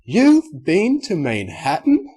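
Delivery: can't believe her ears; astonished. Acted. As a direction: unicorn lady gasping in disbelief. Rarity disbelieving outburst.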